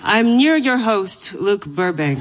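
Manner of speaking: light impression of a radio show host; a hint of mock show-host delivery; Luke Burbank. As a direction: playfully imitate the host's welcome. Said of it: "Is that an impression of me?".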